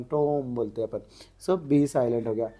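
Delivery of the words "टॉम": टॉम with the final B dropped; silent B in टॉम. Shown as a demonstration. Teacher shows a silent letter, टॉम without B. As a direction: say टॉम ending on M, no B. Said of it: "बी की आवाज़ नहीं निकलती".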